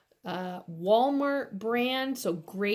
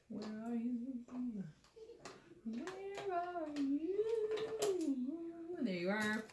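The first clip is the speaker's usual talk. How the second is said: higher sing-song where are you; coaxing call; 8 semitones higher, 8 dB quieter than usual. Real, not acted. Nail artist hunting the 3D gel pot, sing-song calling. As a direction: call the lost pot like a pet.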